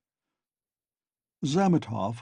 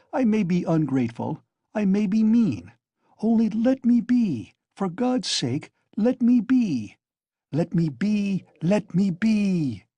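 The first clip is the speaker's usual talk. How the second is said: frenzied plea; 8 semitones higher than usual. A narrator's reading. Raskolnikov, panting in a frenzy, begs Razumihin to let him be. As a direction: beg to be let alone, in a frenzy. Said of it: "panting for breath, in a frenzy".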